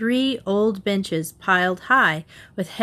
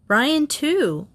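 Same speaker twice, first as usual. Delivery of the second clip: higher, worried voice; tense and anxious; 7 semitones higher than usual. A narrator's reading. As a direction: add it with anxious concern. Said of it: "her voice tense and anxious".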